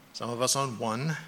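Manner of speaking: usual speaking voice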